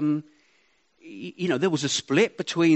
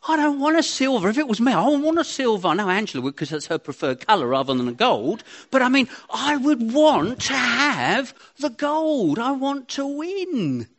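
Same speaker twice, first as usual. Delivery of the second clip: fierce wanting; 7 semitones higher, 4 dB louder than usual. Acted. Preacher voicing fierce competitive drive.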